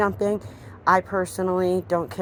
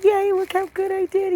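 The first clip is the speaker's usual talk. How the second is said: much higher, louder, gleeful puppy voice; squeaky happy dog thoughts; voicing the dog; 5 dB louder than usual. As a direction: speak for the proud little dog. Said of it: "He's like".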